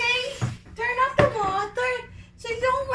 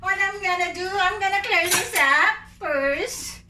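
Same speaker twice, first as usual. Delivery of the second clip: Vietnamese accent; 3 semitones lower than usual. Shown as a demonstration. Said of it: "My Vietnamese accent".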